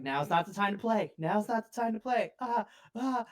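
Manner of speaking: put-on a little boy teasing, ending in a high squeal; child voice. GM voicing a mischievous boy, rising into a squeal.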